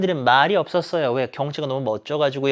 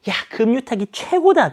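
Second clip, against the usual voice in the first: high, lively acted cheer; excited exclamation; 8 semitones higher, 4 dB louder than usual. Mia cheering about rafting, excited exclamation. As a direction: exclaim it high, like a thrilled rafter. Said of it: "막 재밌어가지고 막 미아가 이야기를 했거든요".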